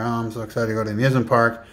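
flat-out fake excitement; badly faked excitement, hurried through; unconvincing excitement. Shown as a demonstration. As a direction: say you're excited without showing any. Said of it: "that doesn't show excitement".

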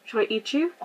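lightly voiced giant, slowed; a hint of a hungry giant. Reading the giant's lines to the player, lightly voiced giant. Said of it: "A giant voice says".

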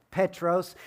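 Petros as PEH-tros, rolled out slowly; Greek name. Shown as a demonstration. Preacher giving the Greek name, Petros as PEH-tros. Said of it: "It's more like Rocky".

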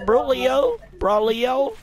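"Brolio" low, rising at the end; low-pitched "Brolio", tipped up like a question. Pretend. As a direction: try out "Brolio" in a deep register. Trying out ways to say a name.

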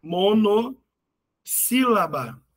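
"Monossílaba" very slow, split as mono... sílaba; drawn-out key term. Shown as a demonstration. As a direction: stretch "Monossílaba" in two long halves. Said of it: "Só tem uma sílaba".

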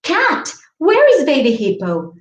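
lively read-aloud calling to the animals; mild storybook call to the cat; storytelling voice. Shown as a demonstration. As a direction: read it to kids with bright calls. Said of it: "So we could do it like this".

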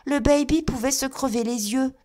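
put-on girl answers her angry mother, high and timid; stammering little girl. A narrator's reading. Little girl stammering to her mother, timid high voice. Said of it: "balbutia la petite fille".

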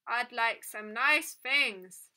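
a toy droning its one wish; metallic doll voice. A narrator's reading. Doll asking the girl for nice things, slow tinny voice. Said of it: "the doll repeated".

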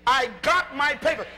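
firm and sure, like you mean it; with conviction. Shown as a demonstration. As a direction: claim your papers with belief. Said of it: "say it like you believe it".

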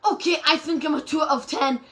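laughing self-mockery. Real, not acted. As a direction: crack up while rating yourself. Laughs at own poor rating.

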